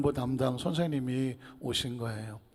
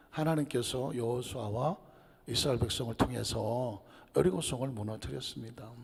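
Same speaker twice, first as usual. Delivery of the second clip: usual speaking voice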